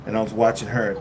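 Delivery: normal talking voice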